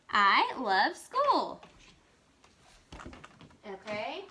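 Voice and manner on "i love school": slow, stretched-out enthusiastic exclamation; excited reading. Shown as a demonstration. Teacher showing pupils how her voice changes, excited. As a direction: draw out each word with glee. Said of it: "hear how my voice changed".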